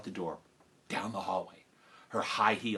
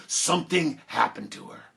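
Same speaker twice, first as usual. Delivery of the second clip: ominous; 2 semitones lower than usual. Retold or imitated. Ominous punchline about the teacher.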